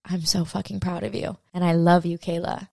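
soft, tender self-love; heart's voice. Retold or imitated. Her heart comforting her after the ego's attack, soft and tender. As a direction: whisper kindness to yourself. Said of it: "my heart and my soul is like".

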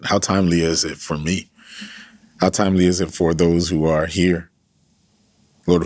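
earnest, steady prayer voice; fervent pastoral prayer; closing prayer. Acted. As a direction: pray over the listeners.

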